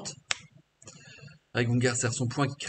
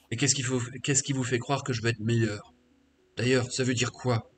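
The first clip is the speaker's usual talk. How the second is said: a lightly voiced brute, gruff and scornful; half-orc sorcerer, defiant. In the game, the half-orc answers the questioner, defiant.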